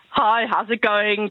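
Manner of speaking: put-on Afrikaans accent. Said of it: "type of accent".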